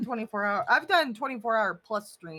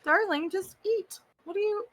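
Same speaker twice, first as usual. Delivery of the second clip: necromancer voice; 7 semitones higher than usual. Acted. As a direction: play the gloating necromancer. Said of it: "Still using the necromancer voice".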